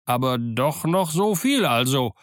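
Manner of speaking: slow, mildly pleased exclamation; cling hopefully to good news; drawn-out cry with a touch of joy; somewhat joyful. Acted. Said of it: "rief Dick mit einer gewissen Freude".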